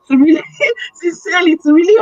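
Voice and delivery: real laugh breaking into the words. Real, not acted. Mother laughs admitting she can't follow her son's accent, laughing.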